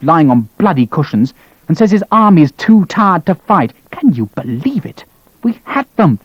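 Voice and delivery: high, heated fury with bitter mockery; seething rant. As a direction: rant and mock their laziness. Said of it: "seething fury".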